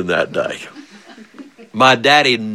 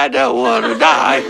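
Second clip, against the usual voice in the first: mock child's wail; hammed-up little-brother crying; imitated crying. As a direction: pretend to bawl like a scared kid. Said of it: "brother started crying".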